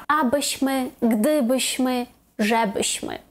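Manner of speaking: Abyśmy, GDYbyśmy, ŻEbyśmy; third-from-last stress. Shown as a demonstration. Teacher listing particles with endings, stress third from end. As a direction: hit the first syllable of "Abyśmy, gdybyśmy, żebyśmy". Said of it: "на третьому складі з кінця".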